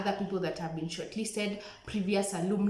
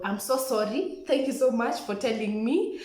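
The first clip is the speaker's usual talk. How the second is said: apologetic; 4 semitones higher, 4 dB louder than usual. Retold or imitated. Apologising to lecturer after reproof.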